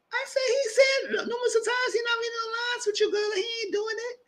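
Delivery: high, shouted reply to the screen; exasperated shout. Real, not acted. Vlogger shouting at Melody that he won't read lines. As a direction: yell it in disbelief.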